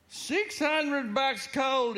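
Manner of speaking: slow, mildly croaky lament; husband mildly croaking over his lost money. Acted. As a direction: drag it out like a lightly croaked groan. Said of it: "he croaked".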